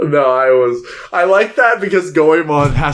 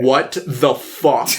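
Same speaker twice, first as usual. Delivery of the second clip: stunned disbelief; much slower than usual. Retold or imitated. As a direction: let it sink in slowly, deadpan shock. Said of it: "I'm like".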